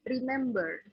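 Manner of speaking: remember with the R sounded at the end; American English remember, R clearly pronounced; American accent. Shown as a demonstration. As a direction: say remember as rimembər, final R rolled in. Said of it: "Kalau American, American accent".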